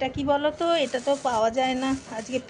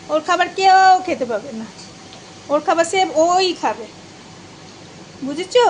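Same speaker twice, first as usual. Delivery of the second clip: teasing; 4 semitones higher, 4 dB louder than usual. Real, not acted. Teasing about pet's food.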